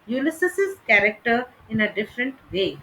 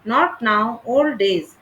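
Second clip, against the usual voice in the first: put-on "not now" and "old days" with both words hit; two equal beats on each pair; weighty spondees; spondees stressed; slower than usual. Shown as a demonstration. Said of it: "The spondees".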